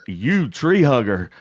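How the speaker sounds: slow mock yell back; retold yell. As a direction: act out hollering a retort, drawing out the words. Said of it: "I yelled out the window".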